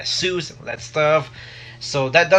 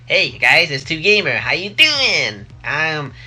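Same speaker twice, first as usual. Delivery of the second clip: lightly put-on nerdy gamer intro, a little louder; 3 dB louder than usual. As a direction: play the goofy nerd greeting his viewers. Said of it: "his old, funny, nerdy voice".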